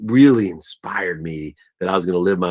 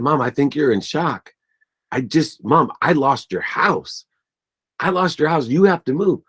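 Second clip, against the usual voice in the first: retold bawling plea; 6 semitones higher than usual. Son tells mom he lost her house, retold urgent plea. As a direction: plead higher and higher, retelling your own distress. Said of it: "And I'm bawling".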